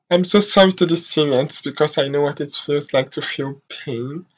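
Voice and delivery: real sorrow, voice sinking very soft; holding back tears. Real, not acted. Vlogger tells the Syrians she's sorry, holding back tears. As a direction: apologise softly, fading almost away on the last word. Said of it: "I'm not gonna be crying".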